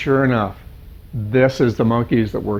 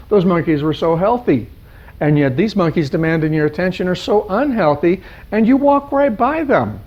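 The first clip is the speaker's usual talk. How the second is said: irritated; 5 semitones higher than usual. Acted. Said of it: "he was somewhat irritated".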